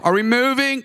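put-on high-pitched kid asking; lightly acted kid voice, pitched high; child's question. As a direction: imitate a child piping up with a question. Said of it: "one of them was like".

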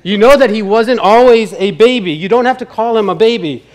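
lightly voiced wife, gently correcting; wife interjecting. Wife cuts into the grace, mildly voiced wife. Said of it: "his wife interjects and says".

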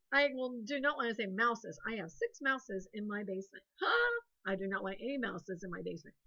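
put-on a lightly whined child's complaint, touch of a cry; mock whining. Teacher playing a kid who hates mouses, mock whine. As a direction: whimper it like a sulky kid, only half serious.

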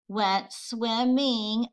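"swimming" said slowly, split as swim-ming; syllables split apart. Shown as a demonstration. Teacher counting syllables for students, slow and split. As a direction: stretch "swimming" into its two beats. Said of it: "that's also two".

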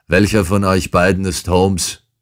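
brusque intruder barks out his question; insolent tone. Acted. Intruder demanding which man is Holmes, insolently. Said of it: "in unverschämtem Tone".

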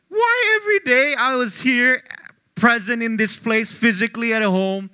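mock aggrieved outburst, high; retold complaint. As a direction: replay the grievance to mom. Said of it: "I was angry".

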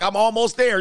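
mock breathy woman. Woman urging exhausted partner to keep going. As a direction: play her urging him on. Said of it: "She like".

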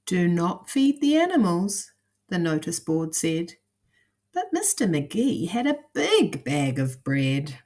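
put-on lively, measured storytelling to young listeners; lilting picture-book narration; children's story reading. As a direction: read it aloud like a picture book.

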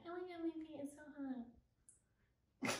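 slow, drawn-out whiny mockery; mock his complaining, stretched out; whiny boyfriend imitation. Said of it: "He's like".

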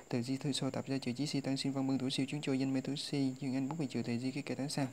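quick, even chant of the list over and over; rote recitation. Shown as a demonstration. Teacher drilling the list aloud for students to memorize, brisk steady chant.

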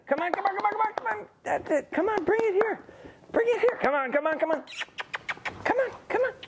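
very high, squeaky eager calling; excited recall. Real, not acted. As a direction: hype her up to bring it in. Excited recall, dog bringing retrieve.

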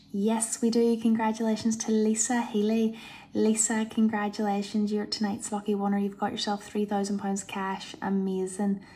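loud, joyful winner reveal; excited announcement. Real, not acted. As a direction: burst out with the good news.

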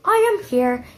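high sweet granny voice; wolf faking a granny voice; grandmother voice. Acted. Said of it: "in his grandmother voice".

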